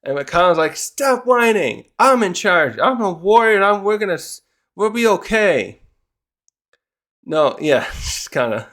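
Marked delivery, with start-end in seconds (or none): 0.8-5.8 put-on bossy kid leader. McConnell scolding crying kids, puffed-up boast. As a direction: act the self-declared tough guy.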